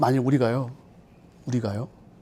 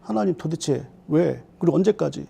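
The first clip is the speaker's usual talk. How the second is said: crying out; 4 semitones lower, 9 dB quieter than usual. Acted. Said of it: "이렇게 부르짖어요".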